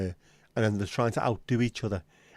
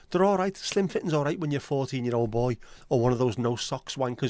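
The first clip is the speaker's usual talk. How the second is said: demo rant; 3 semitones higher than usual. Shown as a demonstration. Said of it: "You should be frothing at the fucking mouth for a rant video".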